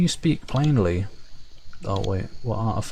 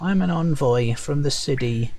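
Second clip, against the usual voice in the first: lightly raised perky sprite voice; a bit higher, chirpy envoy; 4 semitones higher than usual. Acted. Sprite envoy greeting the adventurers, lightly perky. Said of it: "perky, high-pitched voice".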